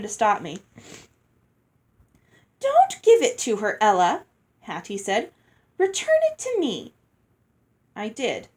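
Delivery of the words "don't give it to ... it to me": put-on sharp, high commanding girl; bossy older sister. A narrator's reading. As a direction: snap out the order high. Hattie orders Ella sharply.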